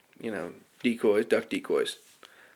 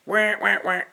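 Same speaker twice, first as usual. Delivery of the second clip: duck call quacks; 10 semitones higher than usual. Shown as a demonstration. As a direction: mimic a hen mallard's quack. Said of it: "all you need is a".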